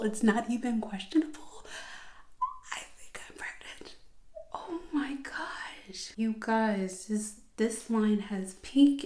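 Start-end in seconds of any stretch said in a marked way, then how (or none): 2.7-4.0 breathless hushed whisper of disbelief; stunned whisper. Real, not acted. To her viewers, staring at the test, in a stunned whisper. Reading a positive pregnancy test. 4.5-6.1 slow, higher awed whisper. Real, not acted. To her viewers over the test, a slow awed whisper.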